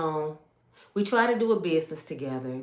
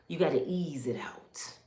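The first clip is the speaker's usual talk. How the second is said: hushed, secretive counsel; soft whispered wisdom passed down; whispered advice; 3 semitones lower, 6 dB quieter than usual. Retold or imitated. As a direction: whisper the mother's warning. Mother's advice quoted.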